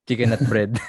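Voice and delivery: mock Filipino accent on "chicken nut bread". Host relishing the meme's punchline, Filipino accent. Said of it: "I love your Filipino accent".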